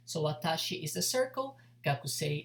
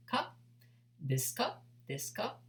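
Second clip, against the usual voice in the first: ですか with the voice rising on か; rising intonation; 4 semitones higher, 3 dB quieter, faster than usual. Shown as a demonstration. Teacher to students showing question intonation, rising ですか. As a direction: lift the pitch up at the end on か like a question. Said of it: "Intonation goes up".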